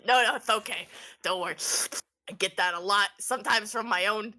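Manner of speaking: lightly voiced frog reassurance; frog creature. Frog shrugs off the insult, lightly voiced creature. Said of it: "Goofy goes".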